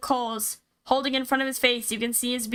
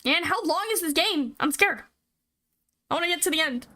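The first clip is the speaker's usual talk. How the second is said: scared; 4 semitones higher than usual. Real, not acted. Scared player wants game over.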